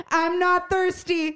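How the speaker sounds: put-on high, slow drunken yell; drunken scream. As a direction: belt it out like a drunk teen refusing water. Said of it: "And screams it".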